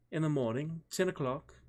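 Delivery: high, questioning British lady; elegant British accent. A narrator's reading. Sophie fixes a time with Chris, elegant British accent. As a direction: propose it in refined British English. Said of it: "she said in her elegant British accent".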